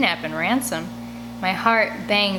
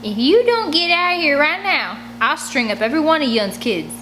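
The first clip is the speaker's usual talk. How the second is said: higher, louder snarling hag; snarling threat; 7 semitones higher, 4 dB louder than usual. Acted. Woman snarls threats at the captive girl, snarling. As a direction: snarl it like a rabid ferret. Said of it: "She snarls like she's some kind of rabid ferret".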